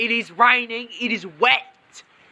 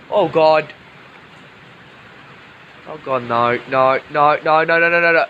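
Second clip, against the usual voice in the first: terrified horror victim; 5 semitones lower, faster than usual. Real, not acted. Strike too close, pleading.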